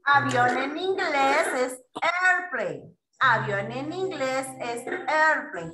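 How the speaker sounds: put-on slow, measured delivery for young learners; slow teaching model. Shown as a demonstration. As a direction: model the new English word slowly. Teacher modelling new word for children.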